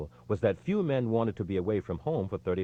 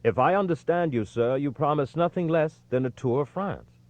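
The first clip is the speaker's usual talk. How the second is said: dry, ironic question, a touch higher; 6 semitones higher, 4 dB louder than usual. A narrator's reading. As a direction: needle him with a sly mocking tone. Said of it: "incapable of containing himself in his irony".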